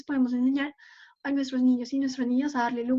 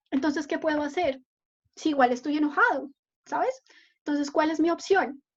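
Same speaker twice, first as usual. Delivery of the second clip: put-on child's voice; 2 semitones higher than usual. Shown as a demonstration. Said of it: "pónganse en el papel de ese niño".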